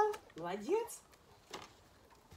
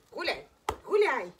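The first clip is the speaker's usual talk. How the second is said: loud release call; 7 dB louder than usual. Real, not acted. Releasing dog loudly.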